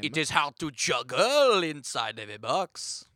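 put-on slightly amateur French mime accent. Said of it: "my French accent isn't that good".

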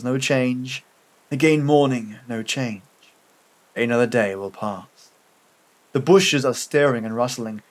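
measured, sombre story reading; story narration. A narrator's reading. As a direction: read it as a bleak first-person tale, pausing between phrases.

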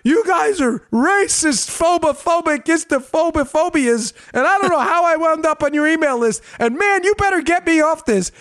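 mock angry rant. The host imitates an angry emailer's high-pitched rant. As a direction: play the furious emailer at full tilt, high. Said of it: "she was so angry".

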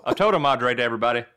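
put-on Spanish mangled in a Southern accent. Panelist saluting everybody in Spanish, Southern accent. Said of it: "in your Southern accent".

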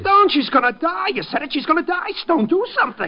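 desperate to save her; panicked shouting at Stone. Acted. Harry learns Peggy will die.

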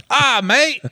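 high-pitched mock Australian; Australian accent. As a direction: slip into a hammed-up Australian accent. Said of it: "You went straight Australian again".

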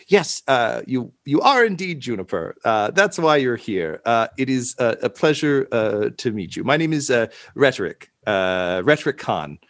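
halting, politely flustered host; out of sorts. Acted. Rumpled librarian type greets Juniper, mildly flustered and halting. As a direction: stumble through a courteous introduction. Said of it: "is a little bit out of sorts".

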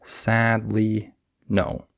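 three syllables with beats on SAD and "no"; stress on SAD and NO. Shown as a demonstration. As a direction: stretch SAD, light "ly", then a firm "no". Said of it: "the way I would say that".

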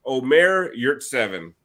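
"Omer Yurtseven" said carefully, syllable by syllable; "Omer Yurtseven", measured and deliberate; careful name pronunciation. Shown as a demonstration. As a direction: show off that you can pronounce "Omer Yurtseven". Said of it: "Guess who can fucking say his name?".

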